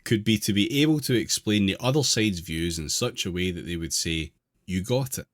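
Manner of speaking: measured reading aloud of an article. Real, not acted. Host reading an article to the group, measured read-aloud. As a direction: read it out clearly, phrase by phrase.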